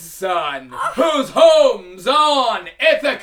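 proud shouted taunt; triumphant boast. Acted. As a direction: boast your name to the giant. Odysseus boasts to Cyclops.

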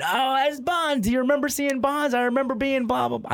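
mock a thrilled old fan looking back; future old men. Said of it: "two ninety-year-old men saying".

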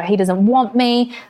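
lightly acted hurt; retold crying complaint. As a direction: imitate a mild self-pitying wail. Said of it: "just crying and crying and crying".

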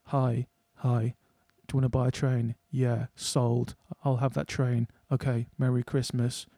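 a lightly voiced, dull Carol character; mocking the film's flat, sleepy dialogue; mock Carol impression. Film fan mocking the movie Carol, lightly voiced dull impression. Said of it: "this is my impression of Carol".

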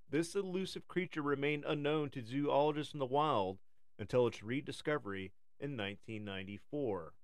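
nature documentary. Acted. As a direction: read it like a wildlife film. Reads a documentary script.

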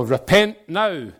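a touch of slow street-corner proclaiming; sandwich-board street preacher. Retold or imitated. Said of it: "an old man with a sandwich board".

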